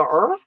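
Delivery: puzzled noise with a steep rise; questioning "er?". Retold or imitated. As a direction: swoop "er?" upward in mock confusion. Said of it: "the thing that made me go".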